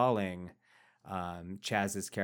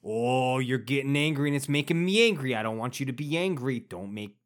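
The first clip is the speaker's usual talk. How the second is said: higher, louder, fast mock panic; mock flustered Vitti; 3 semitones higher, 5 dB louder than usual. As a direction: rattle it off nervously. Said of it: "Vitti's like".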